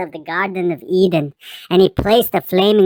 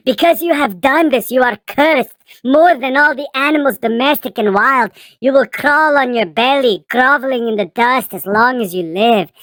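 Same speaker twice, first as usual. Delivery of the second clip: raised, solemn divine decree; stern God voice; 4 semitones higher than usual. Acted. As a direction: pronounce the curse from on high. God's curse, raised voice.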